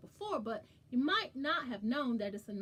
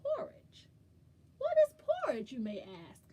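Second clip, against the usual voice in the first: mock puzzled; 4 semitones higher, 7 dB louder than usual.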